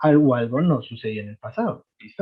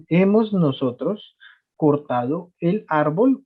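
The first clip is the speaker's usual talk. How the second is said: slow translation; 3 semitones higher, slower than usual. Shown as a demonstration. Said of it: "Entonces, nosotros".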